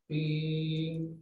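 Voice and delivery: a drawn-out "pin" held longer; longer ping sound. Shown as a demonstration. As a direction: stretch the "pin" out like a lingering overtone. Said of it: "es más largo". (un "pin" más largo y sostenido)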